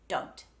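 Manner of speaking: don't begun with a solid, clean D; crisp tongue-tip D opening don't; hard D. Shown as a demonstration. Coach repeats example for learners, hard D in don't. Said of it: "that first D sound is a solid, clean".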